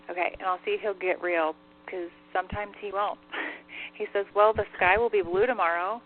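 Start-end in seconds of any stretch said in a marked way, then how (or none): 4.3-6.0 dry, relayed smart-aleck answer; mock good news with light sarcasm; lightly sarcastic, imitating a wisecracker. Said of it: "he's taking a really sarcastic tone".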